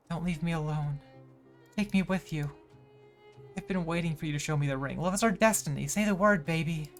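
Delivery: high, melodramatic romantic pleading; theatrical lovelorn performer. Acted. Performer rehearsing love lines, melodramatic pleading.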